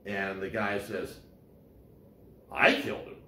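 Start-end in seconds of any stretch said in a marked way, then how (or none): 2.5-3.2 incredulous, as if accused out of nowhere; surprised disbelief. Retold or imitated. New Yorker reacting to the policeman with shocked disbelief. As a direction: pitch jumps high and louder on "I killed him", rising like a stunned question. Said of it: "That's a statement of surprise".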